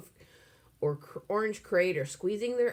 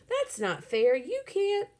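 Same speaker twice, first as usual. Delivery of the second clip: loud protest; 4 dB louder, slower than usual. A narrator's reading. Billy protesting loudly.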